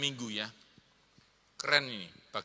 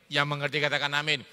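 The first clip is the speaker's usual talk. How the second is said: quicker repeat; faster than usual. Real, not acted.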